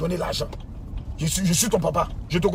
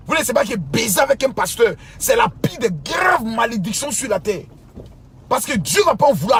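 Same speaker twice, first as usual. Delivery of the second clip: preaching shout; 3 semitones higher than usual. Real, not acted. Sermon tonné contre les femmes.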